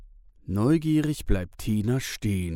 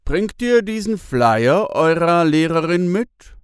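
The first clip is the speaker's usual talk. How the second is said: man's voice; 8 semitones higher, 7 dB louder than usual. A narrator's reading. Bruno asks kindly.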